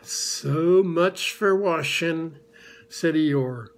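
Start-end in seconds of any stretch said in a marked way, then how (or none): 0.0-2.4 Eeyore's grumble. Acted. Eeyore's slow gloomy voice.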